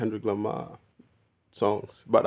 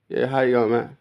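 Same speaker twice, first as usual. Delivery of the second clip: relaxed Australian "how you going, man", a bit louder; casual Australian greeting; 3 semitones higher, 4 dB louder than usual. Retold or imitated. Explaining how we talk here, a loud Australian greeting. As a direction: toss off an Aussie hello to a mate. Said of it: "That's how we speak now".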